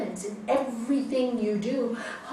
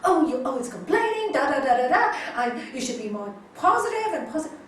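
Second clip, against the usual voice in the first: imitated shout; 3 semitones higher, 7 dB louder, faster than usual. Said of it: "he shouted at me and said".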